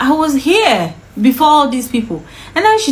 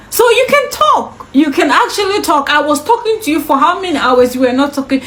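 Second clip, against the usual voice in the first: retold sarcastic outburst, higher pitched; angry retort; 4 semitones higher than usual. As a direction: throw it back in heated mock amazement. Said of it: "why I was angry and yelling".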